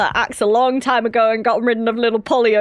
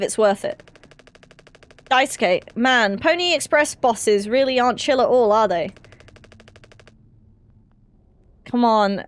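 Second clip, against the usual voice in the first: lightly acted crew banter, mostly own voice; voicing game dialogue. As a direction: read the crew's lines like a weary cast.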